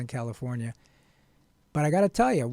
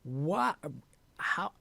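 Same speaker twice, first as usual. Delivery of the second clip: mock dismay; 3 semitones higher than usual. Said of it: "I would have said".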